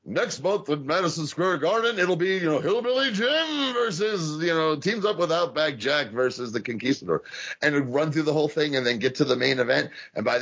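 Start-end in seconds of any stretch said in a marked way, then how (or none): 0.0-7.2 big booming ring announcer build-up. Retold or imitated. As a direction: announce the card like Howard Finkel. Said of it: "and you go".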